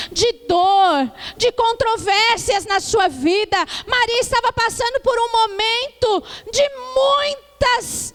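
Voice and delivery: rising, emphatic sermon voice; preaching. Acted. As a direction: preach it to the church, swelling and easing. Preaching to the congregation.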